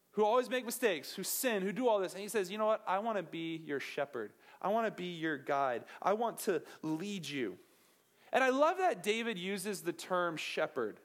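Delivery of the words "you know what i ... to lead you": tender God voice. Retold or imitated. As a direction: speak it like a caring guide.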